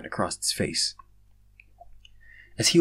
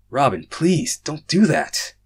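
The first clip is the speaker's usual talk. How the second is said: higher, louder scolding yell; screaming; 6 semitones higher, 6 dB louder, much slower than usual. Acted. Drago yelling at Robin after being startled, higher and louder. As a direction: yell at him, still rattled. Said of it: "I screamed at him".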